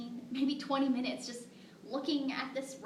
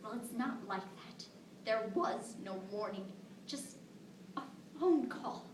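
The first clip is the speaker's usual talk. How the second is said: hushed, heavy grief; tragic heroine sorrow. Acted. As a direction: let the words sink, barely voiced. Telling of daughter's death.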